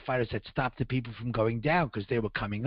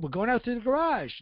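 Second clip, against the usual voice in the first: yelling back; 9 semitones higher than usual. Retold or imitated. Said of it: "So I yelled back up".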